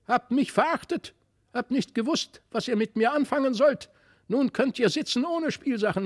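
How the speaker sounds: high, squawking doll voice; ugly squawking doll. A narrator's reading. Wicked doll squawking threats at the soaked children. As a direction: squawk like a nasty broken doll. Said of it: "mit hässlicher Stimme quäkte".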